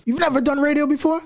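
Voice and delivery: a hint of the brash boss; lightly voiced radio boss. Imitating radio owner.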